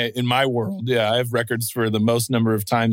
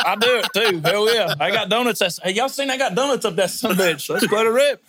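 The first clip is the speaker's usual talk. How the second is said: hyped hillbilly racer; 7 semitones higher than usual. Retold or imitated. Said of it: "We're like".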